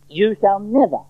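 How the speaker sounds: "never" stressed with a falling tune; very emphatic. Acted. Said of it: "very emphatic".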